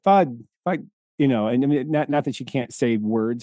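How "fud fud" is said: put-on child sounding out. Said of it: "she's like".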